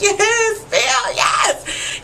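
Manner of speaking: high, cheering then breathy shout; retold excited shriek. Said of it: "I was so excited".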